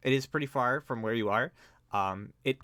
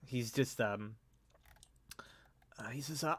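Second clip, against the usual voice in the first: normal talking voice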